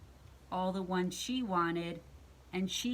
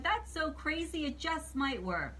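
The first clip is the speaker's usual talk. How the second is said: higher-pitched witch voice; lightly voiced storybook witch; intrigued witch; 7 semitones higher than usual. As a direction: pitch it up as the idea catches on. Witch warms to the idea.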